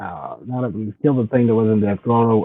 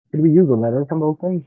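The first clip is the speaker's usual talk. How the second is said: muffled, like a bad connection; 5 semitones higher, faster than usual. Real, not acted. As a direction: sound muted and muffled. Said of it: "he sounds very muted or muffled".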